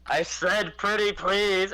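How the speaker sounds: sweet plea. Acted. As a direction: lay on the charm up at the guards. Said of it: "in common".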